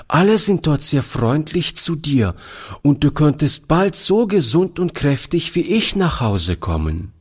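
put-on high, sweet little girl. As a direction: speak as a small sick girl. Voiced child character speaks.

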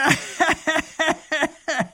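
loud high gloating laugh; booming robber laugh. A narrator's reading. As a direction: laugh across the river triumphantly. (dröhnendes Räuberlachen)

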